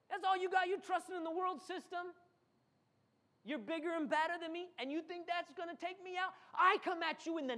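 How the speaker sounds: mocking taunt. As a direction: belittle the giant. David mocking Goliath.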